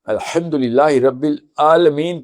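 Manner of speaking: slow demo recitation of الحمدللہ رب العالمین; reading Al-hamdulillah. Shown as a demonstration. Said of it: "جیسے میں ... پڑھ دوں".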